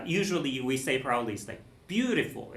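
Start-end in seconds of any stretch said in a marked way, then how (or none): 1.9-2.5 beautiful with BEAU stressed, rest light; stress on first syllable. Shown as a demonstration. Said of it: "the emphasis on the first syllable".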